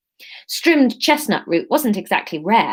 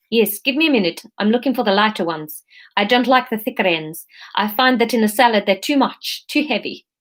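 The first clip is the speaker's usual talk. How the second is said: a hint of South African; lightly voiced South African customer; light South African accent. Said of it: "we can do Aleph as South African".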